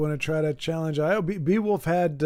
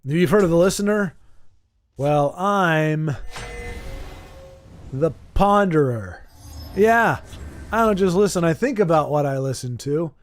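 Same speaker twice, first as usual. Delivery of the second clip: put-on belligerent drunk. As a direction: puff up like a bar brawler. Boastful mock challenge to opponent.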